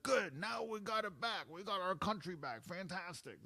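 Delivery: high-pitched mock Anglo white-boy accent. Mocking anti-immigrant people celebrating, in a white boy accent. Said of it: "my white boy accent".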